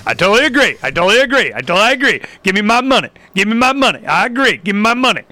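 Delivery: chanting, repetitive mock compliance; mock eager agreement. Host mimics people taking government money, mock eager. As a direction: parrot it like a grabby recipient.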